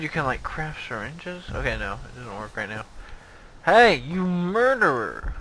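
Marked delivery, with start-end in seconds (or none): 3.6-5.3 game character shout. Acted.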